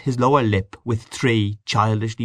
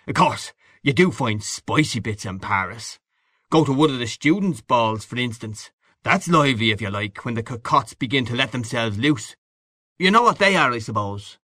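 knowing, worldly man, lightly voiced; hearty boastful Gallagher figure. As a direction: confide racy tales with a touch of swagger. Gallagher on Paris nightlife.

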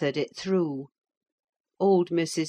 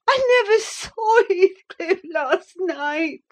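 high, slow, tearful denial; sobbing; 14 semitones higher, 4 dB louder, slower than usual. A narrator's reading. Catherine sobbing her denial to her brother. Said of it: "beginning to sob bitterly".

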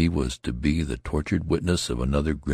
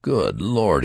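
higher and louder alarmed exclamation; startled cry; 6 semitones higher, 4 dB louder than usual. A narrator's reading. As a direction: cry out in shock. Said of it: "he cried".

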